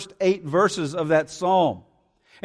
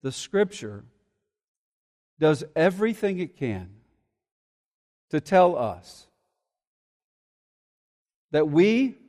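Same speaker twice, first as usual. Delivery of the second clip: quiet, weighty preacher's hush; hushed preaching; 6 semitones lower, 5 dB quieter than usual. Real, not acted. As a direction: drop low and quiet to press it home. Hushed sermon point.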